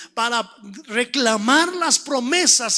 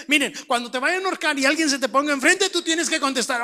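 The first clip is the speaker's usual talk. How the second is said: mock instructor; faster than usual. Mimics an imagined class instructor.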